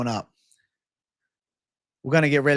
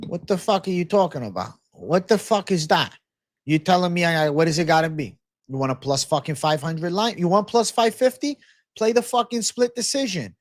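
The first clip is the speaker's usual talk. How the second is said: indignant rant. Real, not acted. Streamer rants at chat's complaint.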